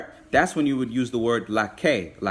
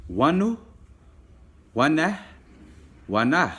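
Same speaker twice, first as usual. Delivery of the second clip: "wanu" and "wana" sung out higher with rising tune, last "wana" falls; teacher drilling words; 4 semitones higher than usual. Shown as a demonstration. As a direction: model each word for the class to repeat. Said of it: "You can say that with me".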